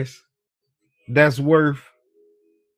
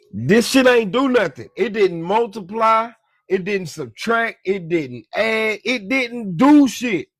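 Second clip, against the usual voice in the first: exasperated emphasis; 6 semitones higher than usual. Real, not acted. Exasperated point about the money.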